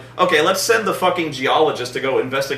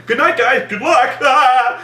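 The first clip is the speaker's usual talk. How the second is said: high cheery goodbye breaking into a laugh; mock-cheerful send-off dissolving into laughter; laughing mock farewell; 8 semitones higher, 4 dB louder, slower than usual. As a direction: wave them off, cracking up. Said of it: "Then he's like".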